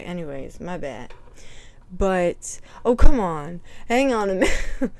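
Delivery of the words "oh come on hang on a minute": loud fed-up groan of words; exasperated outburst. Real, not acted. Annoyed at the ad popping up, loud exasperated outburst. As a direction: blurt it out, annoyed.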